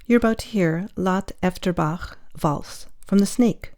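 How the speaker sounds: measured announcer read; composed presenter's track announcement; radio music introduction. Acted. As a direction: introduce the piece to listeners, evenly. Radio host introduces the tune.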